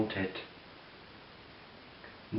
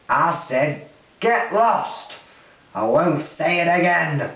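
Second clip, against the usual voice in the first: loud, higher angry command; angry demon; 3 semitones higher, 3 dB louder, slower than usual. Acted. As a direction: bark the order, losing patience. Demon repeats his threat.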